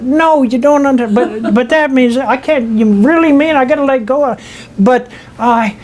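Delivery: husband refusing to let go of his wife, distraught; like a squirming baby. Retold or imitated. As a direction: fight it like a baby not wanting to be held. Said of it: "like a baby not wanting to be held".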